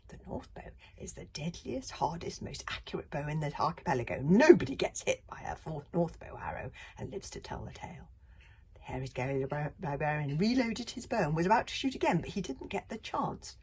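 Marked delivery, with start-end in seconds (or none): 0.1-8.1 awed whisper. Acted. Librarian stunned.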